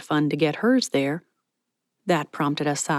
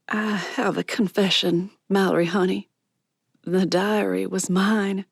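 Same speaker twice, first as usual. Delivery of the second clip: tearful confession; 2 semitones higher than usual. Acted. Miss Patty confessing to Mallory, tearful. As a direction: confess gently.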